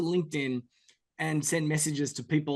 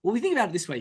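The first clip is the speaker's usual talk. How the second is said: normal talking voice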